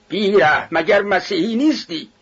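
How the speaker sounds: high-pitched, indignant outcry; reproachful shout. A narrator's reading. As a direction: cry out in protest from the crowd. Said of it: "پیرمردی از میان جمعیت فریاد زد". (فریاد زیر و معترضانه)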